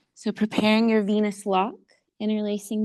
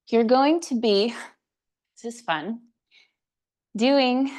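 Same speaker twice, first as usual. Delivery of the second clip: winded, puffing between words; out of breath; 2 semitones higher, 4 dB louder than usual. Real, not acted. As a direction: talk while short of breath. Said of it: "gotta catch my breath".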